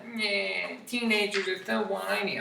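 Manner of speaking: high, dismissive whine; mock disdain. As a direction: scoff at teenagers playfully.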